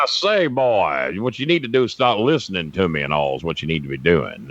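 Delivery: lightly voiced blustering Southern rooster; Foghorn Leghorn. Recreating his failed northern accent, lightly hammed Southern general. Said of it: "He went into Foghorn Leghorn?".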